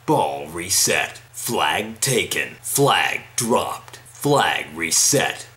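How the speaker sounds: Halo announcer voice. Pretend. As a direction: call it out like a shooter announcer. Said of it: "doing this thing again".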